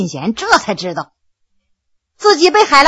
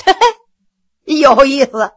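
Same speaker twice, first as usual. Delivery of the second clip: amused chuckle. Acted. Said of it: "扑哧一笑".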